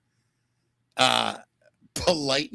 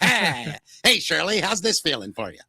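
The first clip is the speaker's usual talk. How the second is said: newsreel voice misapplied to romance; mock vintage announcer sweet-talk; old-time newscaster lover. Host imagines making love with that voice, old-time announcer. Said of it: "making love with that voice, though".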